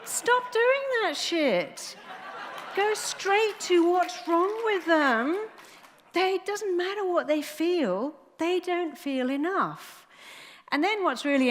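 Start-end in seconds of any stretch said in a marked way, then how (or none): 0.0-8.6 high, loud and slow, laughing as she scolds; laughing outburst. Real, not acted. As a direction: laugh while telling them off. Laughing rant at psychiatrists.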